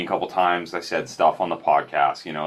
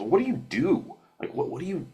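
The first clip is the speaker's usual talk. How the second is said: curious stranger; 7 semitones higher than usual. Retold or imitated. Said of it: "he goes".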